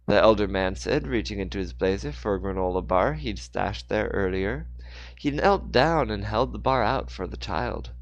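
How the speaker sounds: phrase-by-phrase storyteller read, strong openings; story narration. A narrator's reading. Narrator telling of Mister Moore's fall, story narration. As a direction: narrate the action with deliberate pauses.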